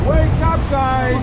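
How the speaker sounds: shouting. Real, not acted. Guide rousing rafters.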